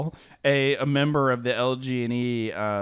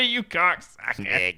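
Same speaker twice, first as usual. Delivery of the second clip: affectionate insult; 2 semitones lower, slower than usual. Real, not acted. Friend caught out by joke.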